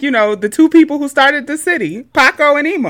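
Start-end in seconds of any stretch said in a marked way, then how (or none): 2.0-2.9 Paco and Ema as two names, higher; names pulled apart. Shown as a demonstration. Host explaining the city's name, Paco and Ema said separately. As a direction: spell out the sound: PAH-koh and EE-muh. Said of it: "It sound like".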